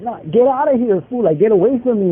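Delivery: joking brush-off. Retold or imitated. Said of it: "we're just laughing about it".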